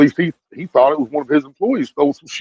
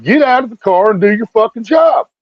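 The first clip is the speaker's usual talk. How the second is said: higher, mock-angry order to the cop; retold angry demand; 6 semitones higher than usual. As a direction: imitate a fed-up man yelling at the cop. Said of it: "now dude's getting pissed".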